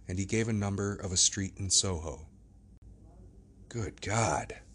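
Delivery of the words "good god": breathless whisper to himself; whispered thought. Acted. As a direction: hush it like a private gasp. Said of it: "thought Mister Utterson".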